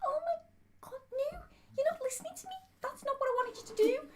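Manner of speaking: very high, crying-edged mock complaint; mock upset whine. Wife mock-crying at Andy for not listening. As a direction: whine it as if about to cry. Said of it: "it goes a little bit like that".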